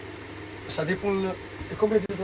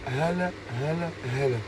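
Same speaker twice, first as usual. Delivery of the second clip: demonstrating Gulf Arabic greetings; 3 dB quieter, faster than usual. Shown as a demonstration. Asked how he would speak in the Emirates or Kuwait, Gulf Arabic. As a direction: speak Gulf Arabic in short, separate phrases. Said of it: "tu parles comment l'arabe?".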